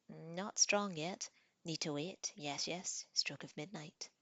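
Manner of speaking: lightly voiced troll refusing, a little sulky. Troll telling Tanith he must wait, slow and sulky. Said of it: "The grin faded".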